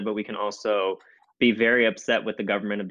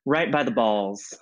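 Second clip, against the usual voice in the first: stuffy allergy voice; congested, sniffly speech; snuffly. Real, not acted. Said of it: "I sound a little bit snuffly".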